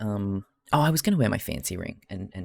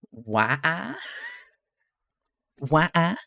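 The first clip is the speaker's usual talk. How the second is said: higher, rising two-note "wah-ah"; playful "wah-ah" noise; 7 semitones higher, slower than usual. Pretend. Streamer makes noises between chat messages, playful rising "wah-ah".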